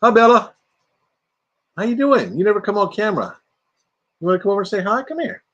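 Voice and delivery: high, sweet coaxing voice; calling someone over. Real, not acted. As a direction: coax a shy loved one closer. Calling Bella over to camera.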